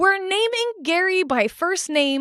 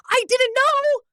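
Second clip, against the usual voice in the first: higher, sheepish shock; dismayed realization; 7 semitones higher than usual. Retold or imitated. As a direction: suddenly realize you've said too much. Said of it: "And then it's like".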